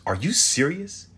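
can't believe what she's hearing; stunned, drawn-out disbelief; incredulous. Acted. Shocked at news of fight.

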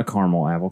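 "caramel" as CAR-mul; two-syllable caramel. Shown as a demonstration. Correcting oneself on the apple, "caramel" as CAR-mul. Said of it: "No, a caramel apple".

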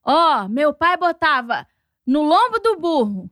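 a father mocked for lecturing about hard times; dad's old-days lecture. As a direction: drag out his back-in-my-day sermon.

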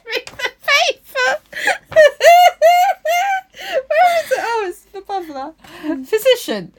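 high squealing laugh through the words; laughing so hard you can barely speak; helpless laughter. Real, not acted. Stuck on a word, cracking up: helpless squealing laughter.

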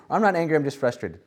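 lightly voiced "I'm just frustrated"; mock excuse. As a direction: rattle off the excuse mockingly. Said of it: "Oh no, you're angry".

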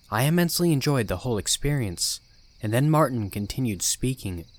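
ordinary delivery, nothing marked

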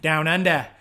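lightly mock Australian accent. Naming where the method began, mock Australian accent. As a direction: slip into a playful Aussie accent. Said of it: "The Australians were doing it".

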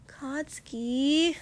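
high, slow, sharp warning. Acted. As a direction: snap his name. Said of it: "Denki said sharply".

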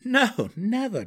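high, loud, drawn-out refusal; emphatic, slow, soaring denial; laughing denial. A narrator's reading. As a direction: cry it out as if amused. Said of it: "Driz laughed".

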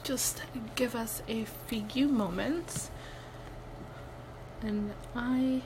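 whispering while chewing ice; quiet words round a mouthful of ice; mouth full. Real, not acted. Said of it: "if you hear me chewing".

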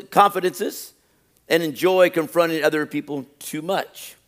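measured read-aloud with long pauses after each item; slow, deliberate reading. Real, not acted. Preacher reading a list for self-examination, slow and deliberate. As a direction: read it slowly, pausing between items. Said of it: "I'm gonna read it real slow".

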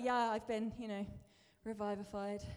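mock bored Yeah, I've been, you know, revivified; half-hearted. Shown as a demonstration. Preacher mocks saying it without passion, limply. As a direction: let revivified. trail off, unimpressed. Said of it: "You can't just be like".

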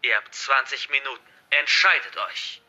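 lightly voiced hostage-taker, projected; forceful, threatening address to captives; menacing hacker villain. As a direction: declare it like a villain in control. Narrator voices the hacker's instructions.

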